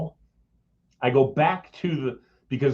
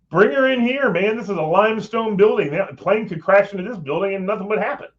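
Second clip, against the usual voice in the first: insistent inner voice; 9 semitones higher, 5 dB louder than usual. Retold or imitated. Inner thought, excited insistence.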